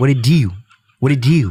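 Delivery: Baltimore way of talking. Describing how people from Baltimore talk, doing a Baltimore accent impression. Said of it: "Motherfuckers from Baltimore sound like that".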